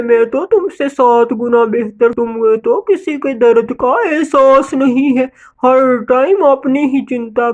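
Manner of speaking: lightly voiced disgusted scold; indignant scolding bird. Bird scolds Gori for her bad intentions, indignant. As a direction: tell off a selfish neighbour.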